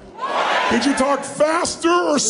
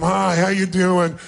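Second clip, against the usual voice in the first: slow, can't-be-bothered hello; a slow, mildly bored hello to a stranger; bored dismissive greeting; 3 semitones lower, slower than usual. Acted. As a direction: greet them like they're wasting your time. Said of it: "like it's a total waste of your time".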